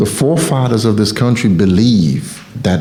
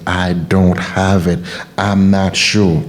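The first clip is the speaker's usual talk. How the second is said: slow defeated self-talk; 2 semitones lower, slower than usual. Shown as a demonstration. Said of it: "You're erasing yourself from your path when you start".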